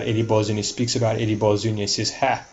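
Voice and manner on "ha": dramatic monologue in a lightly attempted film-star accent; attempted Pacino accent. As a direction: have a rough go at the screen devil's accent. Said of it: "let me leave the accent behind".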